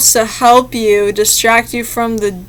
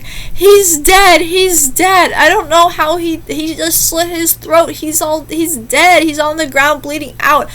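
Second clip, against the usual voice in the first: higher, half-hearted fake sobbing; imitating a woman faking tears to police; woman faking grief on the police call, mock sobbing; mock crying call; 5 semitones higher than usual. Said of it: "like, crying and sobbing".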